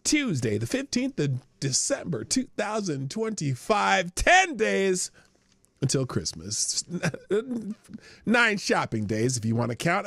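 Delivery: a hint of a morning radio host. Host greets his stream viewers in a light mock radio DJ voice. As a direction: announce it like a breakfast show DJ, lightly. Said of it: "I don't know why I'm talking like this. This is not a, a radio".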